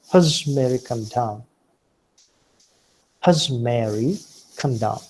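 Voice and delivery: "Hus" said short with a schwa; weak form of has. Shown as a demonstration. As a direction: reduce "Hus" to an unstressed huhz before Mary. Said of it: "or simply hus".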